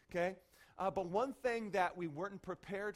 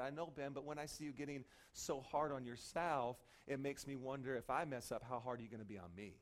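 retold gentle reproach; 5 semitones lower, 6 dB quieter than usual. Wife's gentle confession, retold.

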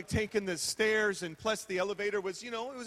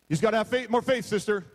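mock preacher; 6 dB louder, faster than usual. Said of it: "people preach about faith".

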